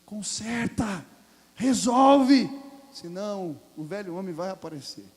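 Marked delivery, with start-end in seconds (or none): 0.1-2.5 loud exhortation. Acted. Preaching exhortation.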